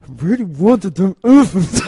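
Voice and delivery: put-on sulky character voice with swooping pitch; Cersei. Host mimicking a queen obsessed with elephants, mock pout. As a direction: whine it in character, playfully exaggerated. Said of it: "straight away she's like".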